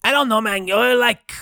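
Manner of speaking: lazily turning them down; stoner crayfish guard. Acted. Guardian refuses passage.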